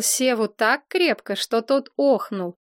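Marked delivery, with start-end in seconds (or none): none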